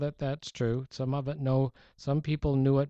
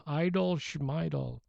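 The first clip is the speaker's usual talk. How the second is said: put-on Jewish accent; 4 semitones higher, slower than usual. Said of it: "with sort of a Jewish accent".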